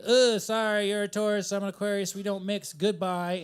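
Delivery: lightly voiced genie's brisk dismissal; mythical genie. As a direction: turn them down as a genie would. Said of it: "talking like a mythical genie".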